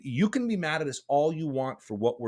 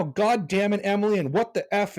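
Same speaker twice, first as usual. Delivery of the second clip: mock angry yell; 8 semitones higher, 4 dB louder than usual. Boss pretending to yell at Emily over video, mock angry yell. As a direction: pretend chewing out, louder and higher. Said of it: "I could be yelling at you right now".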